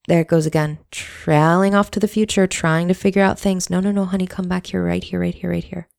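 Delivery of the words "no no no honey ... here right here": soft, tender coaxing back to the present, fading softer; tender self-soothing. Retold or imitated. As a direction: gently call yourself back like calming a child.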